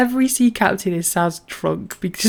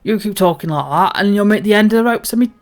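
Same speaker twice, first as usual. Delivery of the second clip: hearty salty sea captain, a touch louder; pirate captain; 5 dB louder than usual. Acted. Captain tells the crew a bawdy tale, hearty pirate voice. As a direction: boom it out like an old sea dog.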